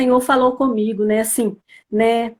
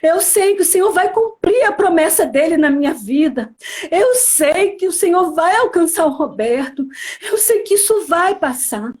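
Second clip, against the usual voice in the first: higher, insistent declaration of faith; tearful conviction, retold; 4 semitones higher than usual. Woman retelling her promise to church sisters, fervent. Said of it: "eu falei isso chorando".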